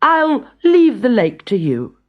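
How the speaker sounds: put-on a clever boy sending the giant to the bear; high, mischievous young hero; cunning boy. A narrator's reading. Boy Avram's voice.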